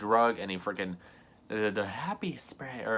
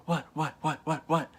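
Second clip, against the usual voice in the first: higher, repeated staccato questions; alarmed mom; 5 semitones higher than usual. Retold or imitated. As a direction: imitate a startled mother. Mom comes out at the screams.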